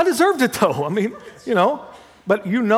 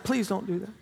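pleading; 10 dB quieter than usual. Retold or imitated. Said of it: "And he's like".

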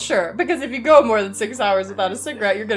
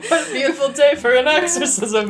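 Mister Rogers voice; 4 semitones higher than usual. Pretend. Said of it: "like, Mister Rogers' Neighborhood, but The Exorcist".

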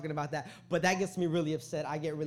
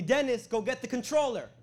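higher, louder mock-mom order; imitating yelling mom; 8 semitones higher, 6 dB louder than usual. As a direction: holler like a mom demanding her son fetch something. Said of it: "She's yelling at me".

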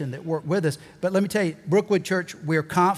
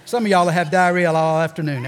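joking through a laugh; laughing tease; 6 dB louder than usual. Real, not acted. Preacher joking to the church about squirming, laughing. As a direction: laugh as you rib them.

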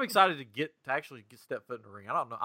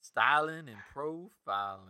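wrestling promo; 5 dB quieter, slower than usual. Retold or imitated. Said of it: "Cut a promo".

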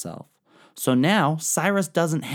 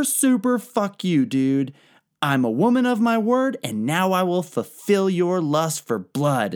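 much higher, louder, slow gloating over the dead king; triumphant vengeful queen; 8 semitones higher, 3 dB louder than usual. Acted. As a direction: savor the revenge, dragging each word out in a loud high voice. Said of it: "skin pouch and is like".

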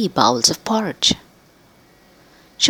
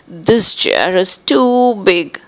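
slow complaint, "too" leaned on; girl finds chair too big, mild exclaim; 4 dB louder, slower than usual. Acted. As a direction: drag it out, unimpressed. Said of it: "she exclaimed".

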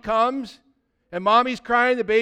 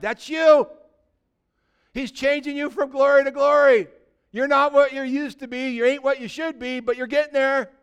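much higher and louder, proclaiming; preaching shout; 6 semitones higher, 4 dB louder than usual. Real, not acted. Preacher shouting the good news at the congregation, much louder and higher. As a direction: shout it out to lift the church.

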